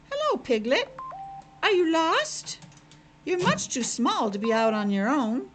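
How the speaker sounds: a busy little bird calling to a piglet; sparrow calling. Acted. Sparrow on her nest calls to the lost piglet, high bird voice. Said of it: "called to him".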